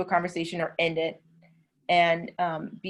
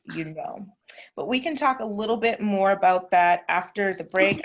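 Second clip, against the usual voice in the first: whisper. Real, not acted. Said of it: "unvoiced whisper".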